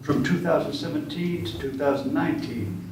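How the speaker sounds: measured bio read; formal introduction. Acted. Host reading a poet's bio to the audience, formal and measured. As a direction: read out the poet's credits, phrase by phrase.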